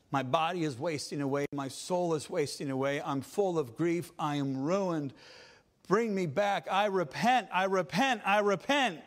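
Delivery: rising cry of "I repent"; desperate plea. Acted. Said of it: "willing to do whatever is necessary".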